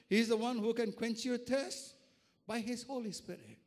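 insistent, rhythmic preacher's appeal; impassioned preaching. Real, not acted. Preacher assuring congregation of God's provision, impassioned preaching. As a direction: press each promise on the listeners.

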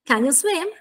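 "Can you swim?" rising on swim; teacher's model question, pitch going up on "swim"; umbrella intonation. Shown as a demonstration. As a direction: lift "swim" to show the question tune. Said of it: "Se me la sentite?".

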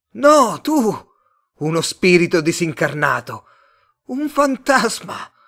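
high, loud alien outcry; agitated otherworldly cries; Martian accusing. A narrator's reading. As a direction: hurl it back in a high Martian voice. Martian throws the accusation back.

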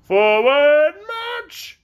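high, loud military command; cried order. Acted. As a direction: shout the drill order. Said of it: "cried to the colonels".

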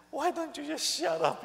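preacher mocking a noisy leader; exasperated retort. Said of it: "I said".

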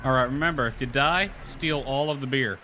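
robotic voice. Real, not acted. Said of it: "You sound robotic".

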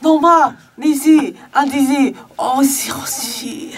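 fake Korean. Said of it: "それっぽい韓国語で".

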